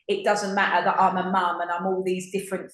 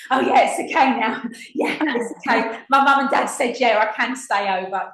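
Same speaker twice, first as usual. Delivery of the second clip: put-on childlike glee; 3 semitones higher, 3 dB louder than usual. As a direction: chirp it like a happy kid. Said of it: "that childlike state going".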